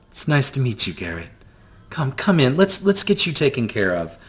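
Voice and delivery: a hint of a kind grandmother welcoming guests; gentle grandmother. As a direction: soothe the weary guests.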